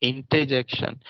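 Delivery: इंटरजेक्शन with the r dropped, "इंटेजेक्शन"; correct pronunciation. Shown as a demonstration. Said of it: "ऐसा आपको pronounce करना होगा". (इंटरजेक्शन बिना र के)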